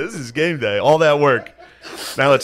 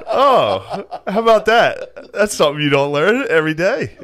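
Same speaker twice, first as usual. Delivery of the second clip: lightly voiced faux-innocent kid, a bit higher and slow; mock wide-eyed kid; 5 semitones higher than usual. Fifth grader to teacher, lightly voiced fake amazement. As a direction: play dumb, sweetly amazed. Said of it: "I had to, like, stay in character".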